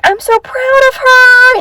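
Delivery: put-on high, slow, sweet child voice; imitated kids. Teacher imitating her class praising a classmate, high childlike coo. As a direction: coo it like first graders. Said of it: "they were like".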